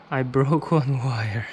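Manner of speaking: rueful laugh through the words. Real, not acted. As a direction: laugh at your own blunder. Repeats, laughing at mistake.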